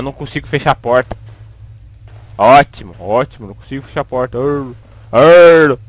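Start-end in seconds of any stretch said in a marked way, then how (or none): 4.4-5.8 drawn-out "arr", second one louder; exasperated noise, twice; frustrated growl. Real, not acted. Frustrated he cannot close the door.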